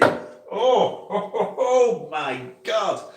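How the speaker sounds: high, slow laughing oh my God; real laughter mixed with disgust. Real, not acted. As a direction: laugh through the revulsion. Laughing after smelling it.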